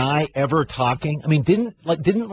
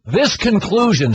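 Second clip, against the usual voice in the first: put-on slow, stretched Boston accent; mock statesman with Boston vowels; JFK impersonation; 3 semitones higher, slower than usual. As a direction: open the statement in a Kennedy-style Boston accent. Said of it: "working on your J F K impersonation".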